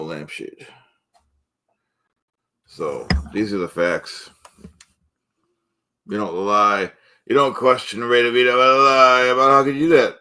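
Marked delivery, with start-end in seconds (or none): 6.1-10.2 a touch of puffed-up indignation; blustering self-important host, lightly louder; indignant host character. Acted. Cooking-show host bristling at doubters, indignant. Character rant about being questioned.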